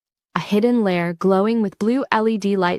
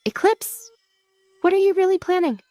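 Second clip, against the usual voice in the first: whispering; 12 semitones higher than usual. Acted.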